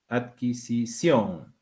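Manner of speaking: adquisición drawn out slowly and softly, stress on the last syllable; slow, careful word. Shown as a demonstration. Teacher to class, sounding out adquisición slowly. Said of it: "Es una palabra aguda".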